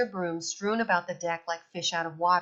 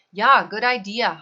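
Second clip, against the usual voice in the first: eager; 2 semitones higher, 8 dB louder than usual. Acted. Halvor agrees eagerly.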